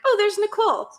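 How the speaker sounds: high, startled recognition breaking into a laugh; mistaking the neighbor for Nicole, then catching herself with a laugh; surprised double take. Retold or imitated. Retelling seeing her neighbor as Nicole, surprised then laughing. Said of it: "I'm, I'm like".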